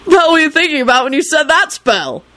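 high-pitched baffled youngster; incredulous questioning. Acted. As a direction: demand an explanation in a high voice. Child questions father's botched spell.

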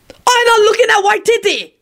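put-on high, caricatured Asian accent; Asian-accented call. A narrator's reading. Man objecting from behind, high Asian accent. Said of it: "an Asian man behind them called out".

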